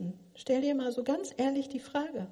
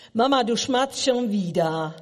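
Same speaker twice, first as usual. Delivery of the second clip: put-on child's complaint; 7 dB louder than usual. Child calls out to mother.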